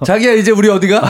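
high, playful partner's question; mock sweetheart asking. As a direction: call to your darling, hammed-up and eager. Acts out partner asking first.

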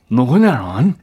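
낮게 깐 위협하는 목소리; 목소리를 깔아 물어. Retold or imitated. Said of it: "한 번만 더 하시면". (아주 낮게 깐 목소리)

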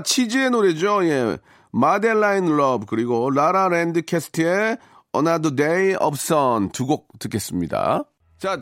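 usual speaking voice

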